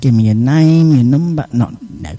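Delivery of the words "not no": low, quiet self-correction; catching himself. Real, not acted. DJ stopping himself before a cheeky joke on air. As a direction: swallow the word and take it back. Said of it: "I was gonna be cheeky then".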